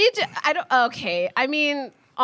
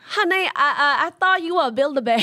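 a put-on Vietnamese accent for a movie line; 4 semitones higher than usual. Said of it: "Let's go Vietnamese".

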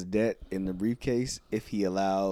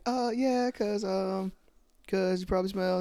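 much higher, playful jab; teasing girl voice; 11 semitones higher than usual. Retold or imitated. Girl teasing a sweaty wrestler, much higher. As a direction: tease him nervously. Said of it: "And she's like".

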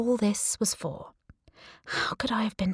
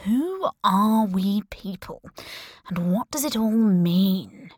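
musing aloud; slower than usual. Acted. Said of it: "he asked himself".

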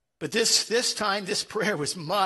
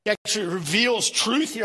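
normal talking voice

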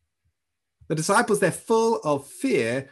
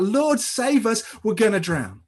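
drawn-out, higher-pitched mock cry for help; fearful shout; 5 semitones higher than usual. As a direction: imitate panicked disciples calling out, without full volume. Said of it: "in a moment of fear, they shout".

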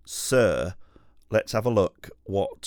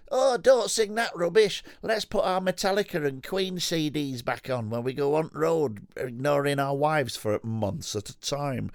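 higher, cheeky bloke voice; put-on bloke voice; 6 semitones higher than usual. One mate scolding the other in a high put-on voice. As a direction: play a laddish rocker pal.

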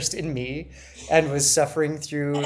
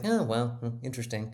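sarcastic; 3 semitones lower, 6 dB quieter than usual. Retold or imitated. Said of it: "I rolled my eyes and I was like".

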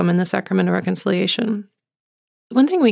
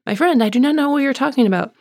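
high, hurried acted protest; flustered denial; 6 semitones higher, 3 dB louder, faster than usual. Peter denying Jesus to an accuser, flustered. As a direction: rush out an indignant denial, pitched up.

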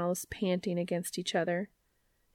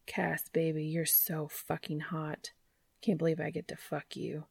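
low aroused murmur; 3 semitones lower, 6 dB quieter than usual. Acted. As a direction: breathe it against his neck. Dean's aroused words.

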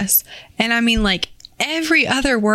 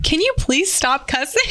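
quote through a laugh; 4 semitones higher than usual. Retold or imitated. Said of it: "I just said".

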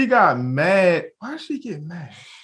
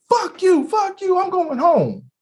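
mock angry woman; 12 semitones higher than usual. Mimicking the woman storming off, high mock cursing. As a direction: ham up her storming off.

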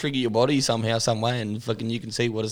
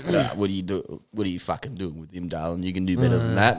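1 sleazy flirt; 5 semitones lower than usual. Retold or imitated. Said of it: "he's like".

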